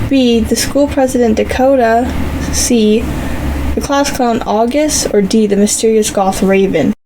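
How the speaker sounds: even, storytelling read to viewers; story narration. A narrator's reading. Narrator reading a fantasy adventure to viewers, storytelling.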